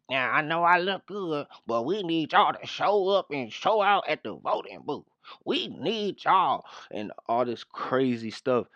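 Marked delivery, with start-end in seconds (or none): 0.1-6.6 higher sing-song mock of a campaign plea; hammed-up imitation of a politician begging votes; mocking Kamala. Mocking the vice president's voting plea, higher sing-song. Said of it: "talking about".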